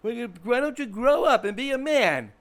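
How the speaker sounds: loud, high-pitched telling-off; mock scolding. Someone scolding an emotional man to grow up, mock scolding. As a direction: act out a loud, exasperated reproach. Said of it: "someone will say to you".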